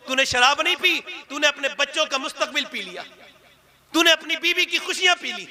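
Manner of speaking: rising, forceful sermon address; preaching rebuke. Acted. Preacher scolding the drunkard in the crowd, forceful. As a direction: scold the sinner from the pulpit.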